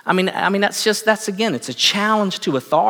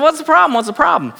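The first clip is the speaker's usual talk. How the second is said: pastor asking; 10 semitones higher, 3 dB louder, faster than usual. Retold or imitated. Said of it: "And he said".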